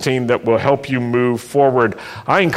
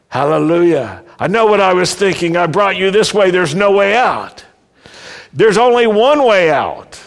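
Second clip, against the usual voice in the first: confident God; 5 semitones higher than usual. Acted. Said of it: "No, it's more like this".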